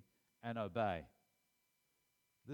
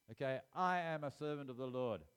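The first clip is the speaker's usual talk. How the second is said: raised, emphatic declaration; louder, insistent proclamation; firm declaration; 4 semitones higher, 5 dB louder than usual. Acted. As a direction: speak out boldly against an enemy. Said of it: "speak out against it".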